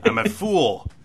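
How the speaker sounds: high, slow laughing self-mockery; laughing at himself. Real, not acted. Podcast host laughs at his own mistake to co-host, laughing. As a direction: laugh it off as a fool.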